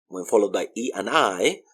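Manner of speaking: usual speaking voice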